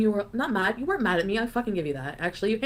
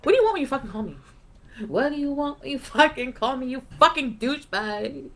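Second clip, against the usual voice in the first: mock angry rant; 3 semitones higher than usual. Caller mimics yelling at her boyfriend, exasperated. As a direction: tell off the guy who keeps calling.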